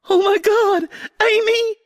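shocked mother. Acted. Mom finds daughter bleeding.

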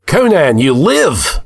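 high-pitched exclamation of relief; high, amazed cry; astonished joy. A narrator's reading. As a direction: hail a friend found alive. Warriors find Conan alive.

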